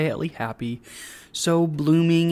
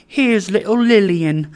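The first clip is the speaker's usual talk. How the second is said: raised, loud, playful welcome; delighted cry; 5 semitones higher, 6 dB louder than usual. A narrator's reading. Father catching up the child, delighted cry. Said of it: "cried Trotty".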